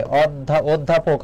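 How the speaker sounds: অধ্যাপক built up in pieces as "od-dha-pok"; closed "o" opening অধ্যাপক; pronunciation demonstration. Shown as a demonstration. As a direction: break off after অধ্যা, then say অধ্যাপক whole. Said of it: "অধ্যাপক শব্দের উচ্চারণ".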